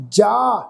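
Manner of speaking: ਜਾ with a pure open aa, no nasal; ਜਾ ending on clean long aa; non-nasal vowel. Shown as a demonstration. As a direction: say ਜਾ with the vowel left oral. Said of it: "ਇਹਨੂੰ ਜਾ ਨਹੀਂ ਕਰਨਾ".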